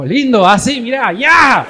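acted high, loud and breathy swoon; mock swooning voice. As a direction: play a gushing, flamboyant aside. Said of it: "hay algo en mí que es como".

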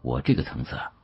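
usual speaking voice

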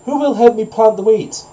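high-pitched storybook hen; little hen's high appeal for help; little hen calling. A narrator's reading. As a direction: call out to the neighbours in a high voice. Hen calls her neighbours for help.

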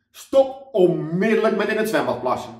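shouting lifeguard scolding swimmers. Acted. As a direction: yell the order at the pool. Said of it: "waar ze tegen iedereen kon schreeuwen".

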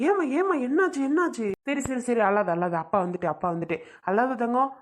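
put-on sing-song cooing to calm a crying child; soothing a baby. Father to his crying baby girl, soothing.

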